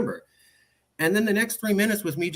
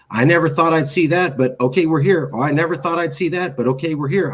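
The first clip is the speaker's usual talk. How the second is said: louder, acted weary-parent refrain; exasperated resignation; 3 semitones higher, 6 dB louder than usual. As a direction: repeat it like a parent forced to concede yet again. Parent repeatedly reassuring kid, acted.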